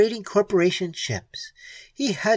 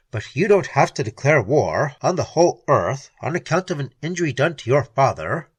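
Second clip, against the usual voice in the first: Keene, pleading; 5 semitones lower, 4 dB louder than usual. A narrator's reading.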